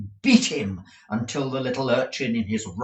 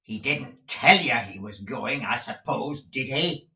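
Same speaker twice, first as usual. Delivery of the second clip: sneer; 3 semitones higher, 4 dB louder than usual. Acted. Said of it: "sneered Squeers".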